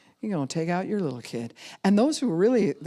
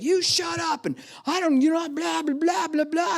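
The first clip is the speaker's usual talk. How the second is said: high, loud mock squabble; imitated bratty outburst; childish arguing; 12 semitones higher, 3 dB louder than usual. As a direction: bicker in a high pitch, trailing into blahs. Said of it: "suddenly our adult self shows up".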